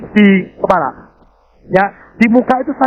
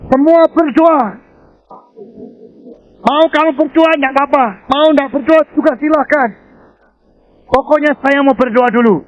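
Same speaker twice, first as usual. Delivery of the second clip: raised, higher command to the group; firm call; 7 semitones higher than usual. Retold or imitated. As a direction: call everyone to pray firmly. Commanding his motor club to pray.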